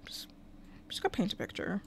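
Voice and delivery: softly whispering to her game character; whispered. Real, not acted. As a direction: whisper the order to the Sim. Telling Sim what to do.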